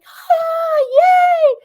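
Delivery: high, loud squeal of delight; gasp, then cheer like an overjoyed child; imitating a kid's ecstatic "yay"; ecstatic little kid. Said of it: "she gets ecstatic like a little kid".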